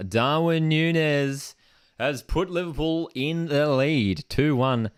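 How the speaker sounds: high, loud, slow goal call. Real, not acted. Streamer calling Liverpool's goal, high and loud. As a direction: sell the goal like a commentator.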